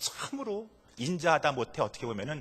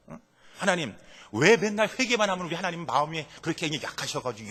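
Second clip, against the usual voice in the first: loud, higher scornful complaint; Jonah mocking God; 5 semitones higher, 5 dB louder than usual. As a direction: sneer at God's mercy, loud and raised. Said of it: "라고 하는 그런 내용인 것입니다".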